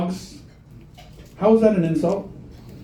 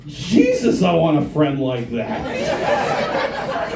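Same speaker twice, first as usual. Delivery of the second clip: awed wish; much slower than usual. Retold or imitated. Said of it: "All I kept thinking was".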